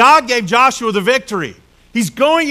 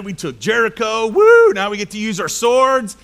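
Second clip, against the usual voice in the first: excited soldiers. Retold or imitated. Army charging in excited.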